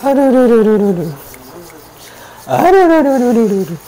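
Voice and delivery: high yelps of real pain; pained cries. Real, not acted. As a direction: cry out over and over in pain. Patient cries out during massage.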